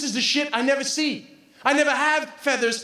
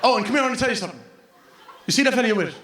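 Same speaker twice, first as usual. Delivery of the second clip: conspiratorial traveler; 8 semitones lower, much faster than usual. Retold or imitated. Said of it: "Everyone I met".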